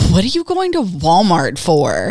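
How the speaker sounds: voice soaked in disgust, swooping pitch. Retelling a question about going to Walmart: imitating Matthew's disgusted voice.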